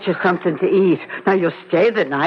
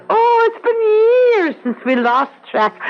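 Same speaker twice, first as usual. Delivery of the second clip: crying as she speaks; tearful; 10 semitones higher than usual. Acted. Aunt recalling years of lost contact, voice breaking. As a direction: voice breaking on the memory.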